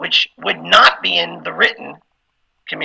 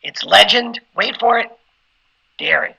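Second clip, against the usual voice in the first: comic pause before "dairy"; poetic pause; 4 semitones higher than usual. Shown as a demonstration. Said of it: "poetic pauses".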